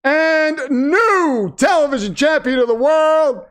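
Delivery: mock ring announcer introduction. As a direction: stretch it out for the crowd. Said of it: "gonna be a loud one".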